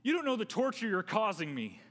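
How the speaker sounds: loud, high, desperate husband begging; self-centred begging on the phone; pleading ransom call. Pretend. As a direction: plead for your wife back, all about yourself. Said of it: "I speak to them and I say".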